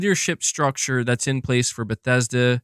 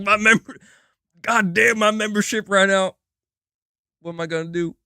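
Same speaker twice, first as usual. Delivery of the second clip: higher, louder whining put-on voice; silly whiny voice; 9 semitones higher, 3 dB louder than usual. To chat about the viewer's lapsed membership, a silly whine. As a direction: whine it like a lost kid. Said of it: "I don't know why I'm talking like that".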